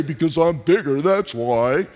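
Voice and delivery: lightly mock the parent who shuts a child down; overbearing parent. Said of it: "not being somebody who's overbearing".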